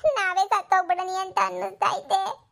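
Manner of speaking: slow, tearful lament; mother weeping, wishing they were dead. Acted. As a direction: cry out her despair slowly. Mother weeping over son.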